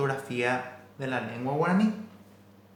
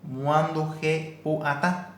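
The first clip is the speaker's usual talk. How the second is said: slow demo; much slower than usual. Shown as a demonstration. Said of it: "en guaraní lo llamamos como muanduje".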